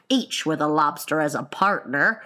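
low creature voice; Gryphon character voice. Acted. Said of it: "cried the Gryphon".

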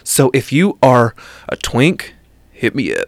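put-on macho flirting voice; masculine voice. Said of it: "That's his masculine voice, guys".

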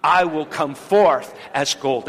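slow, firm group recitation of the verse; leading the church in a slow spoken declaration; loud declaration. Shown as a demonstration. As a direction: declare it out like a creed. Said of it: "You're gonna say it loudly".

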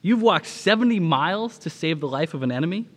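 mildly incredulous acted question; astonished. Washington amazed at the pastor's long walk, astonished. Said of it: "cried Washington".

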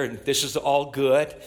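ordinary talk

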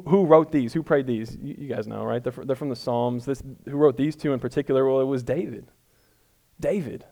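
ordinary talk

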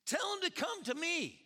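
loud, high-pitched incredulous command; emphatic shouted quote. Acted. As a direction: belt out the order as if it were outrageous. Preacher stresses the startling command.

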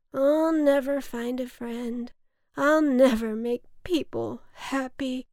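hammed-up self-pity on the edge of tears; tearful lament. A narrator's reading. Lonely cloud despairs to the boy, tearful lament. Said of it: "cloud began to cry".

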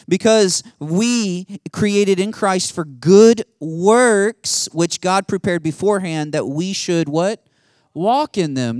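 loud, high preaching, stretching out the key words; fiery preacher voice; full-force preaching. Acted. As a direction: drive the verse home to the congregation.

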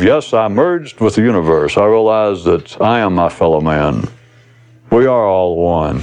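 low, solemn pronouncement; mock enlightened seeker. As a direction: parody of spiritual rigmarole. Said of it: "they fall into all this lifelong verbal rigmarole".

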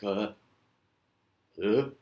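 short retching "uh"; mock gag. Gagging at the taste of celery, mock retch. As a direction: fake a small gag. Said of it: "a physical response where you're like".

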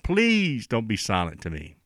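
mildly acted plea, leaning hard on the first word; David. Preacher voices David begging God, mild imitated crying out. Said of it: "David's crying out".

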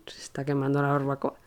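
breathy aside, no voice at all; whisper. Retold or imitated. To herself as the barbecue burns, whispered. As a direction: murmur the grim realisation to yourself.

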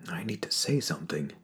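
soft unvoiced inner whisper; whispered thought. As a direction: whisper it to yourself. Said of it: "he thinks".

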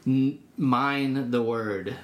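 slow, weighty "Mind the word"; slow emphasis. Retold or imitated. Sergeant urging a young Marine to study scripture, slow and weighty. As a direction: lean slowly on each word of "Mind the word". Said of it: "even hearing a older, more mature Christian".

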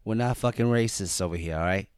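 mock-defensive Bostonian; lightly hammed-up Boston accent. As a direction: insist like a put-on Boston local. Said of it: "that was my Boston accent".

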